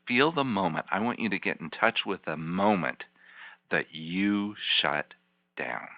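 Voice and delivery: guided visualization. Acted. Therapist guides client back in time.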